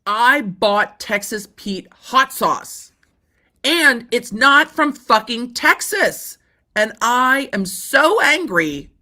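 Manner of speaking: slow, hammed-up outrage at the lawyer; mock angry customer. The plaintiff ranting to his lawyer, slow mock fury. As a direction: play the furious buyer slowly and mockingly. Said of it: "going to a lawyer and being like".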